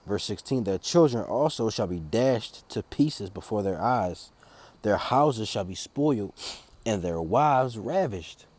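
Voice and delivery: slow, measured Bible reading; scripture reading. Acted. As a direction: read each verse deliberately, weighing the words. Reads Isaiah verses aloud.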